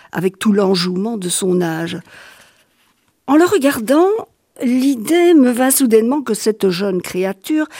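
measured literary reading voice; steady storyteller voice; story narration. A narrator's reading. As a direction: read it like a novel on the radio. Reads the novel aloud.

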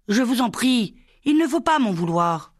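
high, pleading voice, begging not to be blamed. A narrator's reading. Michel begs Violette not to be angry, high and pleading. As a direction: plead high with her to forgive you. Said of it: "Michel supplia".

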